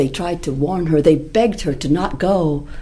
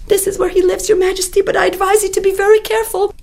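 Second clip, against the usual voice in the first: higher, quick rabbit voice; rabbit's sly warning; much faster than usual. Acted. Rabbit warns the lion at the well. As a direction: warn him with mock concern.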